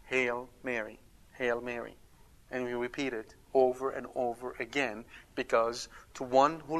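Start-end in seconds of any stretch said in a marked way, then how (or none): 0.1-1.9 gentle repetition. Shown as a demonstration. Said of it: "that is why we repeat".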